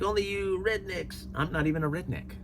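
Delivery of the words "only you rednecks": mock sneer. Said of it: "he's like".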